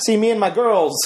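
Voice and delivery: halting actor impression with pauses; Christopher Walken. Host riffs as actor in the tub, halting impression. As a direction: improvise in a celebrity's broken phrasing. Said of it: "say it with a Christopher Walken accent".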